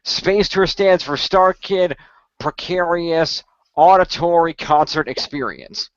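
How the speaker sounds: slow deliberate acronym reading; slow spelled-out acronym. Real, not acted. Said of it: "It's explained".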